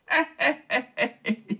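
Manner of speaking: high, gloating laugh of a lecher; lecherous laugh. Acted. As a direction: laugh like a leering young lord. Wang Anguo gloats over two girls.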